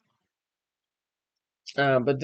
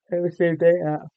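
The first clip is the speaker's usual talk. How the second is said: yawning; 3 semitones higher, faster than usual. Real, not acted. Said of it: "I'm yawning".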